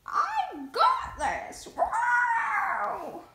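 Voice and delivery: high, loud, very slow shouted boast. Acted. Contestant yelling as she enters the fight, high and loud. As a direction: belt it out in a squeaky put-on voice.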